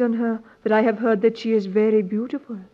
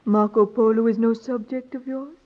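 usual speaking voice

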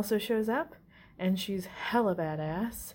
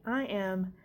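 full of himself. Retold or imitated. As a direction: imitate a man who adores himself. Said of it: "hella full of himself".

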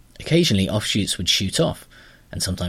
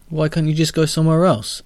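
higher and louder, losing patience; exasperated heroine; 8 semitones higher, 5 dB louder than usual. Acted. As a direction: push the question, exasperated. Astrid exasperated.

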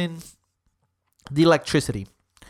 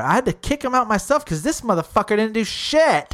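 indignant bartender; 5 semitones higher than usual. Retold or imitated. Retelling angry bartender's complaint.

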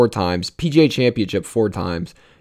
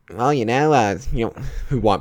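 put-on southern accent. Masters clubhouse host talking to the winner, southern accent. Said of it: "he just talks in that southern accent".

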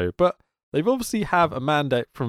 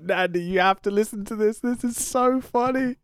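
high, eager call to a friend; urgent, delighted; excited; 10 semitones higher than usual. Retold or imitated. Telling Nandy to listen to the commentary, high and excited. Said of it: "It's like".

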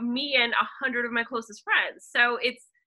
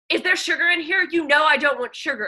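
imitating Ellen; 5 semitones higher, 5 dB louder than usual. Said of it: "And she goes".

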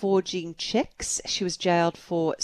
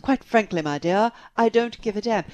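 put-on old movie actor. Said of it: "movies where it was".

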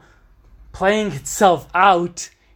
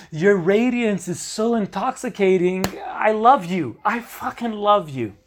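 loud, high, starry-eyed praise; gushing admiration; 4 semitones higher, 4 dB louder than usual. Retold or imitated. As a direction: gush over her like a smitten partner. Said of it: "And I'm like".

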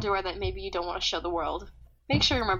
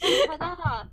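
ta-da flourish; 6 semitones higher, 7 dB louder than usual. Pretend. Reveal flourish.

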